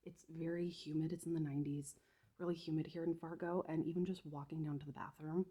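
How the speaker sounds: winded, catching her breath. Real, not acted. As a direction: talk while still breathless. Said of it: "So if I sound really out of breath".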